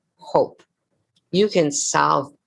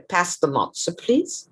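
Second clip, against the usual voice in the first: British Jewish accent; 3 dB quieter, slower than usual. Shown as a demonstration. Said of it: "This is British Jewish".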